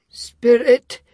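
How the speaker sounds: put-on high, meek old man voice; submissive Scrooge. A narrator's reading. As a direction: plead meekly like a frightened miser. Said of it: "said Scrooge submissively".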